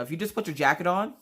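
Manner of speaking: calmed down. Retold or imitated. Mom explaining to son once settled, calmed down. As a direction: reason with him after calming down. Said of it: "when I finally calmed down".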